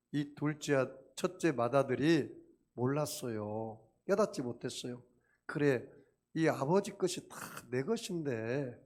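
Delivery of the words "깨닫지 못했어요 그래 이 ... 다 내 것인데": usual speaking voice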